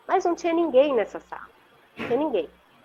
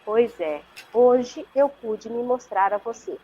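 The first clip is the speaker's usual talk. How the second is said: soft creamy voice. Retold or imitated. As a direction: lightly imitate a calm guardian angel, drawing words out. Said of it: "assim, suave, cremosa". (imitando de leve um anjo calmo e pausado)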